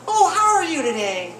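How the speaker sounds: put-on high, loud sweet old lady. Comic voicing old lady at polling line, sweet. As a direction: chirp it like a sweet grandma. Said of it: "if I make this voice".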